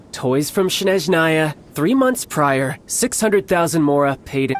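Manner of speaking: slowed down, spelling out each term; slow deliberate repeat. Acted. Salesman repeating his price to the bandits, slow and deliberate. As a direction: lay it out slowly, as if to a child. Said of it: "I'll say it again".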